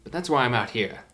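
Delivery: fussy professor. Acted. DM voicing fishing professor.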